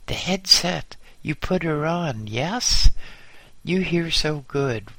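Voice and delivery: high, loud bellow in broken English; loud, eager foreigner giving orders; Marcel. A narrator's reading. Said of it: "and bellowed".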